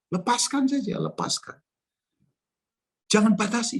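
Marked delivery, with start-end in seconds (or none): 3.1-3.8 emphatic. Shown as a demonstration.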